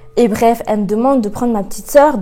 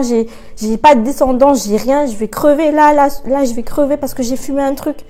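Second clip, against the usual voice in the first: panicked inner thought; 2 semitones higher, 3 dB louder than usual. Retold or imitated. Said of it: "Je me suis dit".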